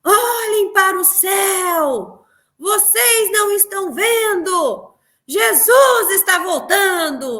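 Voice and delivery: high, slow proclaiming shout; preacher shouting warnings to passersby; street shout. Retold or imitated. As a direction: cry out to the whole street. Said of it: "gritando pras pessoas".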